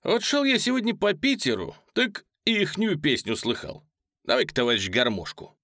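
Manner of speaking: light, high-pitched scornful remark; Polezhaev's remark. Acted. Polezhaev mocking the musicians' song, lightly voiced. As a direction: toss it off to the musicians. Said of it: "сказал, выходя к музыкантам".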